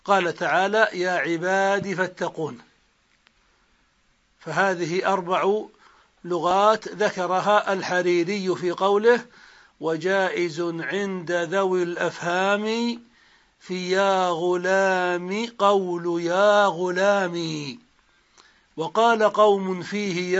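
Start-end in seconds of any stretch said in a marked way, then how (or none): 0.9-2.6 "عبادي" with a short final i; dropped final ya. Shown as a demonstration. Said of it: "بحذف الياء". 9.8-17.8 slow, measured poem reading; stretched, metrical delivery of a teaching verse; verse recitation. Shown as a demonstration. Recites the verse under study.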